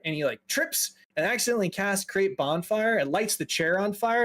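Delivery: ordinary talk, nothing marked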